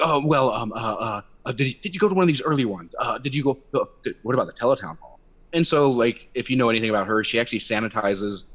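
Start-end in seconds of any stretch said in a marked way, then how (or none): 0.0-5.2 a lightly voiced, stammering politician caught off guard; flustered congresswoman. Mimicking Mia Love dodging a town hall request, mildly flustered. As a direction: hem and haw like a dodging politician. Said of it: "she's like".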